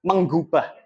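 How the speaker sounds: menggubah with a clear ngg, not mengubah; careful pronunciation. Shown as a demonstration. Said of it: "bukan mengubah ya".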